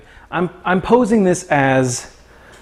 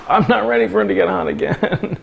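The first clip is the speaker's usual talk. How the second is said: higher-pitched whiny protest; mock complaint; 4 semitones higher than usual. Streamer retelling reaction to Florida heat, mock complaint. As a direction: play up the reluctance lightly. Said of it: "and I was like".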